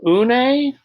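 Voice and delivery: puzzled high Une?; a confused kid mangling a name; mispronounced name. A narrator's reading. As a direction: say Une? high and unsure, like an odd new word. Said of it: "scrunching her face".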